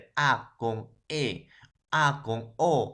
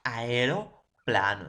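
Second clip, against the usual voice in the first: slow demo; slower than usual. Shown as a demonstration. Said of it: "Es la unión de A y E".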